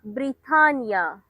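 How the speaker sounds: Britannia said slowly, syllable by syllable. Shown as a demonstration. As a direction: Britannia drawn out with a rolled-up tan. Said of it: "One more time slowly".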